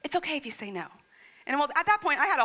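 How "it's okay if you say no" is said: lightly voiced child's hesitant request; a sweet, tentative plea to mom; sweet little child. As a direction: imitate a small child gently asking. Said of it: "She's sweet as can be".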